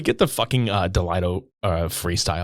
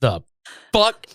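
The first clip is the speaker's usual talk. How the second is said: shocked outburst; 6 semitones higher than usual. Retold or imitated. Secret Service agent busts the president, shocked. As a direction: blurt it in disbelief. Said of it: "he's just like".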